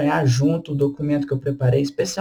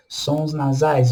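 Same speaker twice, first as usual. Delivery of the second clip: slow emphasis; 3 semitones lower, much slower than usual. Shown as a demonstration.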